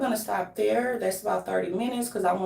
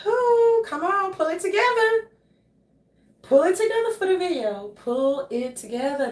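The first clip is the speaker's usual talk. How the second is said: high-pitched mock pep talk; re-enacted plea to get composed; self pep talk; 8 semitones higher than usual. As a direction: coach yourself through it, pitched up.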